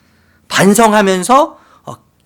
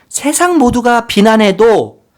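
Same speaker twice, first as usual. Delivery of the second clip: slow and louder, each word weighted; emphatic vow; 5 semitones higher, 6 dB louder, slower than usual. Pretend. Preacher voicing the mother's promise, slow and emphatic. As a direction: declare it slowly and firmly.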